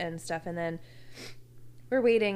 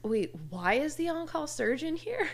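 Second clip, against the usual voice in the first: imitating mom; 7 semitones higher than usual. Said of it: "My mom goes".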